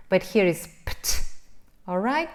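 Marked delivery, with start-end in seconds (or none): 0.9-1.2 pt as two voiceless pops with no vowel; consonant ending. Shown as a demonstration. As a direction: pop pt crisply on its own. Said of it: "it's this ending".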